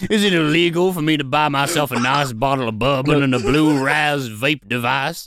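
lightly put-on genteel Southern voice; southern gentleman. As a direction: play an offended Southern gent. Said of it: "I believe there's no law against being a southern gentleman".

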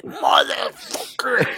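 strained, drawn-out curse, high and held back; mock agony squeezed into one word; lip-biting curse. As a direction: swear slowly through a bitten lip. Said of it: "you're biting your lip".

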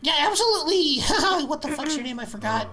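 tipsy slurring barkeep; drunk slur. Acted. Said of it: "I'm so drunk right now".

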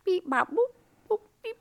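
robot beeps rising high; toy robot voice. Pretend. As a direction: beep like a little droid, going up. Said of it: "can you bebop for me".

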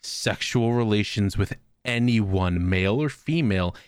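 low, slow, grave doctor voice; a hint of a solemn doctor leaning in; lightly voiced doctor. Doctor leaning in close to patient, low slow grave voice.

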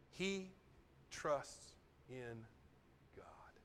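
a preacher whispering it to his congregation; whispered. Real, not acted. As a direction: breathe the word God out.

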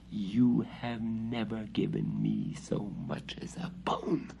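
hissed in a voiceless whisper. A narrator's reading. Cat hissing its grievance at the witch, whispered. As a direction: spit the complaint out in a hiss. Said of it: "hissed the cat".

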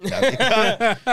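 high-pitched mock protest; retold outcry. Same line repeated as outcry.

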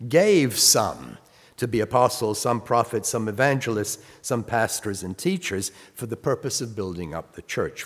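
measured Bible reading; scripture reading. Acted. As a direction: read the list out with weight. Reads scripture aloud.

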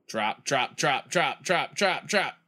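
rapid-fire urging, rising as it goes; will the ball down, word after word; urgent repeated plea. Real, not acted. Player urging the ball to drop, urgent.

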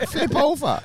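high-pitched fake Japanese accent; mock Japanese accent. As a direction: play a stereotyped Japanese-accented question. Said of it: "give us a little Japanese".

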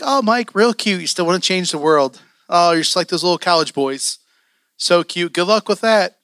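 teasing, condescending imitation of a coworker; lightly sing-song mockery; mocking. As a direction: patronize him like he's a cute little boy. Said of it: "she would, like, mock me".

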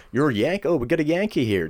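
a hint of a brash New York coworker; New Yorker impression. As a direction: imitate a New Yorker spotting an American. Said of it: "this new guy from New York".

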